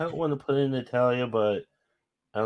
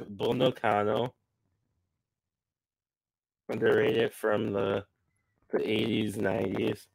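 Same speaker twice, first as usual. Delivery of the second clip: distorted, crackling microphone; crackling mic. Real, not acted. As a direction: voice breaking up through a bad mic. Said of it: "your, your mic is crackling".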